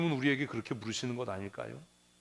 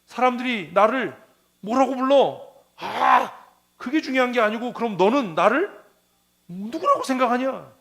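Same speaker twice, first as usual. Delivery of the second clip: Jesus asking; 7 semitones higher, 7 dB louder than usual. Retold or imitated. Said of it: "예수님께서 그래서 물으셨잖아요".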